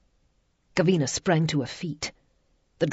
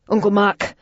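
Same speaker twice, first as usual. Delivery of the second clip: 1 breathless; 5 semitones higher, 7 dB louder than usual. A narrator's reading. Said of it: "Jamie said breathlessly".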